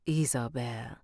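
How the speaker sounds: Italian lilt, leaping high on the second phrase; attempted Spanish accent slipping into Italian; Italian-sounding accent. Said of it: "We did Italian last time".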